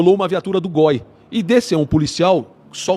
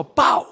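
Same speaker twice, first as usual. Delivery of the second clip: single punchy mouth-made bang; imitated gunshot. Guest recounts shots from the roadway, mimicked bang. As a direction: imitate a shot heard off to the left. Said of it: "comecei a escutar uns tiros".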